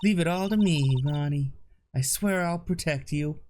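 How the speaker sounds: put-on Southern accent. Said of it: "The Southern accent came out on its own".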